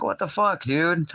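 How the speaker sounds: high, exasperated disbelief; retold exasperation. To her waiting in the lot, high exasperated disbelief. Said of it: "I'm like".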